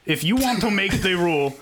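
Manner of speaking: put-on French accent. Co-host making a new rule, badly faked French accent. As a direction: spell out terms in muddled French-Russian accent. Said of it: "you sound like a Frenchman".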